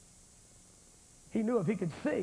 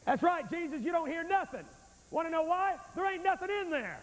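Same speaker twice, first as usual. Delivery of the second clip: higher, a touch of a mock whine; mock complaining beggar; 5 semitones higher than usual. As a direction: play the petty beggar lightly. Mocks a beggar showing empty pockets.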